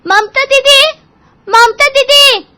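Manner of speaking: very high, loud yell for sister-in-law; shouting. Acted. Seema yelling for Mamta over the dumped chore, high piercing shout. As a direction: scream her name down the hall. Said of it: "सीमा चिल्ला पड़ी".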